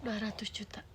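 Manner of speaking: shocked whisper. Real, not acted. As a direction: breathe the sum out in disbelief. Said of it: "Nangis ini mah". (bisikan kaget)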